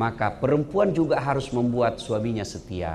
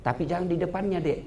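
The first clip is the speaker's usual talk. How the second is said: ordinary talk, nothing marked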